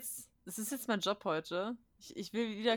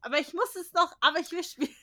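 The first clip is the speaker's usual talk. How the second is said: torn whining; 7 semitones higher, 5 dB louder, faster than usual. Retold or imitated. Torn gamer voiced in quote.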